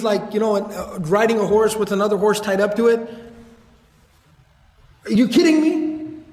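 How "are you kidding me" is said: put-on old man scolding a rich rider, incredulous and exasperated; incredulous reprimand. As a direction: scold the man with two horses in disbelief. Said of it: "he would reprimand people".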